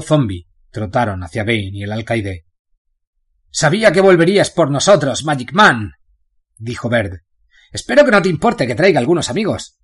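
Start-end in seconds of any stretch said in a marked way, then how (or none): 3.5-9.8 cheerful greeting. Acted. Baird greets Bane happily.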